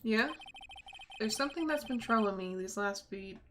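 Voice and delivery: lightly voiced dialogue, dramatic; a hint of a troubled young attorney; game character read. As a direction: read the scene like a grave courtroom drama.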